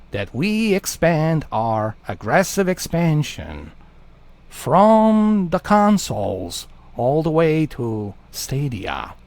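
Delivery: a slow, lightly voiced Joker villain. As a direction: drawl it out like a scheming Joker. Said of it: "let's do it in a Joker voice".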